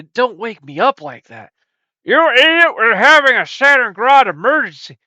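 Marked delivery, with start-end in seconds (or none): 2.0-5.0 higher, louder exasperated yell; angry yell. Acted. Host yelling at his sidekick about an emergency. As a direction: snap at the idiot partner. Scolding partner over emergency.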